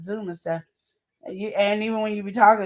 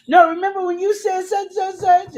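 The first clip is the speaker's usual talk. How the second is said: high, louder mock kid voice; mock kid nagging; 9 semitones higher, 5 dB louder than usual. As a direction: imitate a kid needling Dad. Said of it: "that's when he gets mad".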